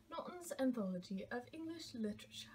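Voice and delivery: softly whispered book title; hushed aside. Real, not acted.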